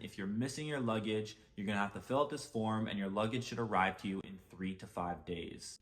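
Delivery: put-on light Jamaican accent; calm, thick Jamaican accent. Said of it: "She said in a thick Jamaican accent".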